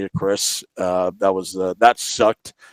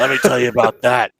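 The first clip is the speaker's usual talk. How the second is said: Colin; 4 dB louder than usual. Retold or imitated. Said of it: "try to mimic Colin".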